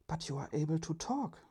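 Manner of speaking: amazed that the robot can talk; surprised. Acted.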